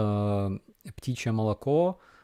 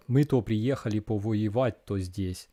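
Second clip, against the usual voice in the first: provincial Russian accent from the glubinka; rural Russian accent. Shown as a demonstration. Streamer mimicking Russians from rural areas, rural Russian accent. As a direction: talk like someone from the Russian backcountry. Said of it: "accent from Glubinka".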